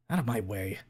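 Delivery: put-on gruff heavy Russian accent. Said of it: "thick Russian accent".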